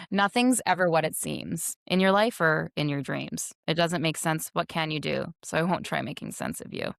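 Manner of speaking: flat, even spoken lyric; monotone. Shown as a demonstration. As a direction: recite it with no tune. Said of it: "in a very monotone voice".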